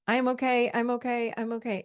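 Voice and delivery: the wrong way, hurried and tense; rushed repetition. Shown as a demonstration. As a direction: rattle it off in a panic. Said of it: "what you don't wanna do is".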